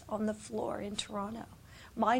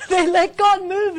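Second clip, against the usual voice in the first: high, loud joyful repeat; joyful emphatic repeat for the crowd; excited exclaim; 8 semitones higher, 14 dB louder than usual. Real, not acted. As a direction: ring it out with delight.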